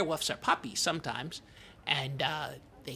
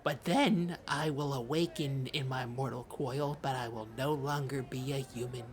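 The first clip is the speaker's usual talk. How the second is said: grave. Acted. Solemn werewolf transformation speech.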